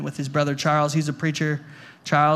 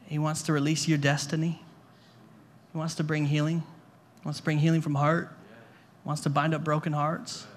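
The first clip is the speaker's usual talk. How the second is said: gentle ministry. Real, not acted. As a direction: speak tenderly over hurting people. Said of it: "the Father wants to be gentle".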